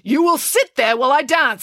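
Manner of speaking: stern command; firm tone. A narrator's reading. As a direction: leave no room for argument. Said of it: "With such a firm tone".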